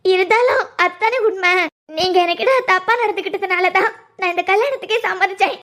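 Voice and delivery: weepy, wronged protest; tearful. Acted. Woman reminding her fiancé why she agreed to marry, tearful. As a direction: insist through small sobs. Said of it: "அழாத மக்களே".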